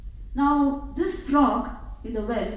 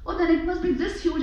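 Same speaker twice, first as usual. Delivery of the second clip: higher-pitched, wide-eyed guess; amazed guess; 6 semitones higher than usual. Acted. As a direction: gasp out the bigger guess. Well frog guesses bigger.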